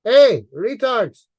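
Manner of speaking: loud, slow taunting hail; slow mocking yell at critics; calling out. Real, not acted. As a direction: shout it out to get their attention.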